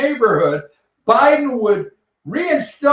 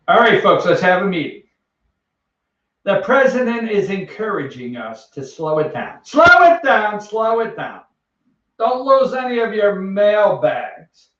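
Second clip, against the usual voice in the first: mock postal supervisor. Postal supervisor holding meeting.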